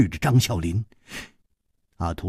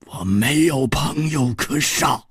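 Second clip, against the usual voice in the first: icy killer's voice, unlike the narrator's; cold reply; 5 semitones higher than usual. A narrator's reading. Killer answers his smiling opponent, cold reply. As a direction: answer coldly, giving nothing away. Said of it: "中原一点红冷冷地说".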